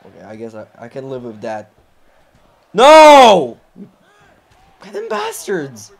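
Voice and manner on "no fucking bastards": high, strained cry of rage; furious yell. Real, not acted. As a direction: curse them at the top of your voice. Opponents interfere with table.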